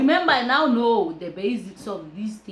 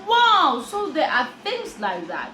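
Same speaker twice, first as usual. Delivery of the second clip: amazed wow; 4 semitones higher than usual. Retold or imitated. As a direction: let the "Wow" burst out astonished. Narrator amazed at warning.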